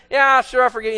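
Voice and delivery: offhand, half-hearted yes; insincere forgiveness. Acted. Someone forgives just for appearances, insincerely. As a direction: let the forgiveness drop away as mere lip service. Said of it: "and you really don't".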